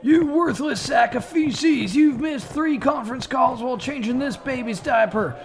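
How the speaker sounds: drill sergeant. Acted. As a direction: yell orders at the recruits. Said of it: "Full Metal Jacket parody".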